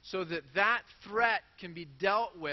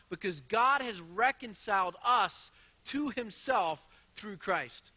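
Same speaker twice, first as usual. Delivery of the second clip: bold scripture reading; 3 semitones higher, 3 dB louder than usual. Shown as a demonstration. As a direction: declare each line of the verse with force. Pastor reads Corinthians verse aloud.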